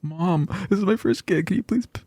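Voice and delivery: high-pitched mock plea; pleading. DJ calling mom about his first gig, pleading. Acts out begging mother for help.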